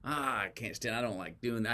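half-hearted imitation of whining; hemming and hawing. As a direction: grumble softly, imitating a reluctant complainer. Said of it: "we hem and haw about it".

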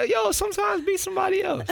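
high-pitched mock yell; high shout. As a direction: shout it high, mocking New Yorkers. Mocking New Yorkers, shouting.

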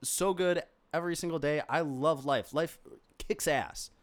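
indignant, overemphatic self-defence; defensive protest. Acted. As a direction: protest your good mood far too forcefully. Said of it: "and it's like".

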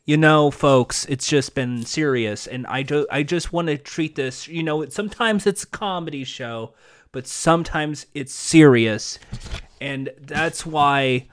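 low, halting earnest appeal; mock solemn. Mock solemn plea over comedy bit.

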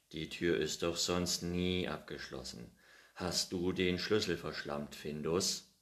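a hint of real annoyance; grumbling scold.

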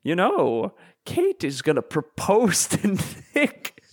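slow, coy British man, lightly hammed-up. British man letting Kate's secret slip to Abby, slow mock innocence. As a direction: play it mock-innocent, dragging the words out. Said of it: "the gay British man is like".

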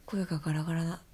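raspy, hoarse throat. Real, not acted. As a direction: speak through a hoarse voice.

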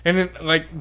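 loud high laughing words. Real, not acted. Laughing loudly at the mess.

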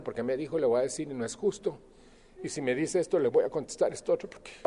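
mock resentful grumbling. Mocking someone ruminating over grievances.

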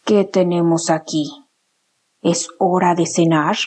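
low growling fox voice. Acted. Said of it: "dijo con un gruñido".

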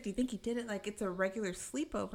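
lightly imitated perky chatter; super pumped. Tatum treating it like a regular sleepover, lightly bubbly. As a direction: pitch up at first, chatty like gossip. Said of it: "she's super pumped".

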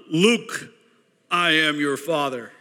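slow, portentous Star Wars villain; movie villain quote. Acted. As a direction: intone it as a grave revelation to a son. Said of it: "yes, Star Wars".

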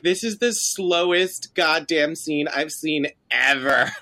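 slow, stretched-out complaint; drawn-out exasperation. Retold or imitated. Podcaster quoting own reaction to the scene, drawn-out exasperation. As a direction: drag out the key words.

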